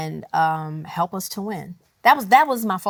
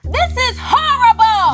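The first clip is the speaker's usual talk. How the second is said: exclaiming; 11 semitones higher, 5 dB louder than usual. Real, not acted. Agonizing over song choice.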